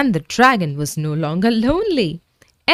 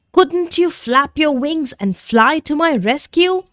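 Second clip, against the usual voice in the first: hopeful plea; 8 semitones higher than usual. Acted. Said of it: "asked Jake".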